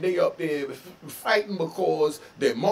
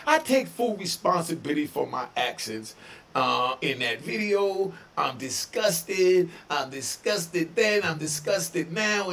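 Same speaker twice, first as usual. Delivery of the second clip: slow, dragged-out mock of the apology. Quoting a rapper's apology video, slow mocking drawl. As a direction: drag it out, sneering at his words. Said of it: "Then you say".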